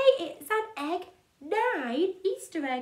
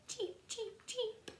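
cartoon bird voice; 6 semitones higher, 15 dB quieter than usual. Imitating chicks.

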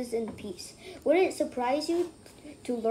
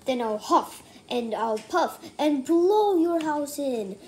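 wolf yelling; 3 dB louder than usual. Acted. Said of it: "the wolf yelled".

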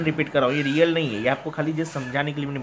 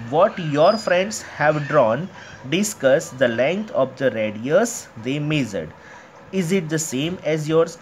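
reading the question out very slowly, word by word; slow textbook reading; much slower than usual. Acted. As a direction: read it aloud to the class like dictation. Teacher reads textbook question aloud. (किताब से धीरे-धीरे पढ़ना)

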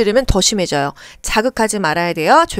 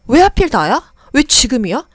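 angry patient. Acted. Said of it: "분노가 차죠".

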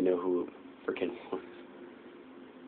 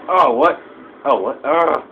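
high, loud startled cries; shocked yelp; 8 semitones higher, 15 dB louder, slower than usual. Real, not acted. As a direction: squeal as the hit lands. Getting hit in game.

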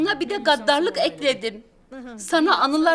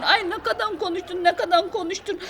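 mimicking husband; 2 semitones higher than usual.

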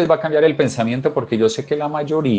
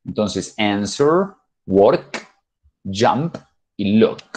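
crisp final r, k, p, k; stress final sounds; much slower than usual. Shown as a demonstration. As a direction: lean on the last letter: "answer", "work", "jump", "look". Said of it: "hago mucho énfasis en la última letra".

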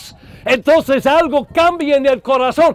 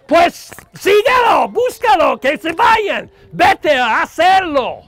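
defiant shout; 4 semitones higher than usual. Acted. Preacher daring the sinner to go on, scornful shout. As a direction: fling it out like a challenge.

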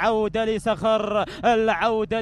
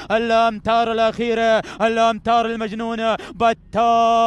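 excited; 5 dB louder than usual. Real, not acted. Race finish, final metres.

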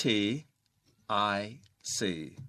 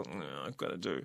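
low, quiet reluctant grumble; unenthusiastic reluctance; 6 semitones lower, 10 dB quieter, much slower than usual. Acted. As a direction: act out dreading a chore, voice dropped and soft. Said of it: "it's not something that you feel". (เสียงต่ำเบา แบบฝืนใจไม่อยากทำ)

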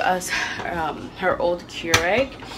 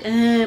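imitated whine; 4 semitones higher, 6 dB louder than usual. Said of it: "but it was like a whine".

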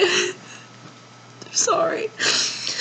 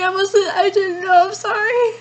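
tearful apology, voice cracking; apologising to dad through tears; crying. Real, not acted.

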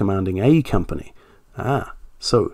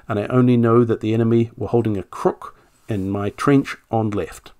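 reading an officer's statement in a light generic British accent; 3 dB louder than usual. Shown as a demonstration. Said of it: "just do a generic accent".

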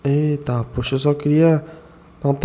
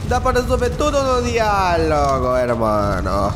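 slow calming plea; 3 semitones higher, slower than usual. Pretend. Calming a fight, drawn out.

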